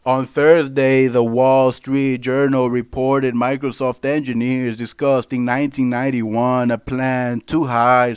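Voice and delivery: slow, measured article reading; news read-aloud. Real, not acted. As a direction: read the report out slowly and evenly.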